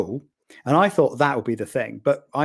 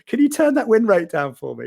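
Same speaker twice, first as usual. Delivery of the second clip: urgent plea; 9 semitones higher, 4 dB louder than usual. Retold or imitated. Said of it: "phoned Blip and go".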